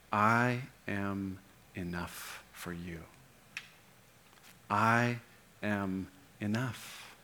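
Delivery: slow, soft and tender, each word laid down gently; gentle voice of Jesus. Pretend. Pastor voicing Jesus to his listeners, slow and tender. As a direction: speak it as comfort to a hurting listener. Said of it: "hear Jesus say".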